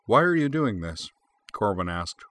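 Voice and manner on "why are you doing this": high, pleading challenge; exasperated demand. A narrator's reading. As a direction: demand an answer, pitch leaping up. Corwin demands a reason from Freya.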